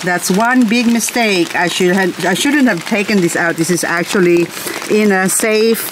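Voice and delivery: ordinary talk, nothing marked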